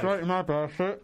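cheeks stuffed full. Real, not acted. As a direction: mouth crammed with marshmallows. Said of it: "You are chewing".

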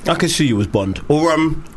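talking while eating a grape; mouth full. Real, not acted. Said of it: "sorry, I'm eating a grape".

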